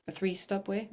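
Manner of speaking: "a three-stop way?" with the words mixed up, asked unsure; slip of the tongue. Real, not acted. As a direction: trip over the words and doubt yourself. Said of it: "No, a three-way stop".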